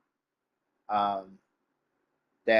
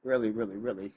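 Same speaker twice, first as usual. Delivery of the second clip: holding back tears; 4 dB quieter than usual. Real, not acted. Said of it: "Not trying to cry on screen".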